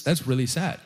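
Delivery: plain. Retold or imitated. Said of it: "And I thought".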